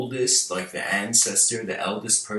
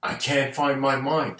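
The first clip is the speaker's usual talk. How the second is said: shocked disciple; 5 semitones higher than usual. Retold or imitated. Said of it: "looks at Bodhidharma shocked and says".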